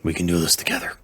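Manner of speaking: soft, reassuring whisper; tender whisper. Acted. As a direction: whisper it gently to comfort him. Friend comforting a broken vampire.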